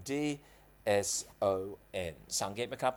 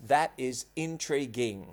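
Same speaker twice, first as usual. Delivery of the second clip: That is intriguing, spelled out word by word very slowly; slow demo phrase; much slower than usual. Shown as a demonstration. Teacher demonstrates a phrase slowly to students. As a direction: drag out That is intriguing for learners. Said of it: "เราชอบพูดว่า".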